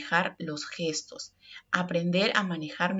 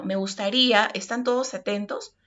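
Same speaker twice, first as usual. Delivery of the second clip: raised voice, not angry; 2 semitones higher than usual. Shown as a demonstration. Teacher calling the class to attention, raised but calm. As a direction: lift your voice so the whole room hears, without anger. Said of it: "yo estoy elevando el tono de voz".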